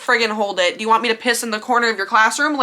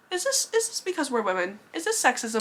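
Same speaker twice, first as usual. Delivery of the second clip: hushed whisper to friend; 3 semitones higher, 8 dB quieter than usual. Retold or imitated.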